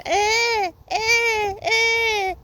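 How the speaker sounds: high, loud broken wails of distress; crying out. Real, not acted. Upset woman wailing about harassment, crying out. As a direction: cry out in real upset, voice cracking high.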